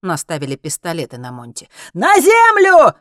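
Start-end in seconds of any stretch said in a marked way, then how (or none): 1.9-2.9 very high, full-volume drawn-out command; yelled order. A narrator's reading. Zlotan orders Monti to the ground, yelling. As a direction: scream the order at her. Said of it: "заорал Злотан".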